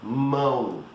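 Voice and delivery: mão nasal, stop before the N; Portuguese mão. Shown as a demonstration. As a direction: mound minus ND. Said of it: "Without the N D is".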